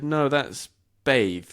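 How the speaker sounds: slow no, that's bathe, said as "bayth"; teacher correcting. Retold or imitated. Smiling teacher corrects the student, slow and patient. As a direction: gently correct the word, slow. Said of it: "she smiled and she said".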